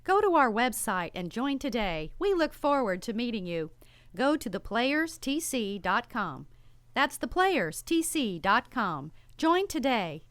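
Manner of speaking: slow, punchy promo read. Acted. Ad announcer urging listeners to join. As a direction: sell the website to listeners.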